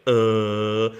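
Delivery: long drawn-out mock groan; imitated dying groan. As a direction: let out a slow last groan on one note. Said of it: "making it on top of his mom's bed, just like".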